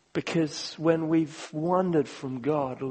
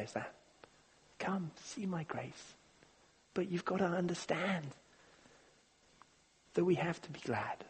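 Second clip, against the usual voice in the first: gentle reassurance; 6 dB quieter than usual. Acted. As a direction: speak it as a loving father. God's gentle reply.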